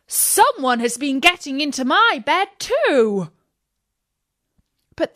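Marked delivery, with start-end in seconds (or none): 0.1-3.3 high, excited dwarf voices; the dwarfs cry out, lifted and excited. A narrator's reading. Each dwarf crying out to the others, high and excited. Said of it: "each one cried".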